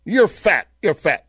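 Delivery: cheeky parrot repeating an insult. Acted. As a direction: squawk it at her like a parrot. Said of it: "he repeats it again".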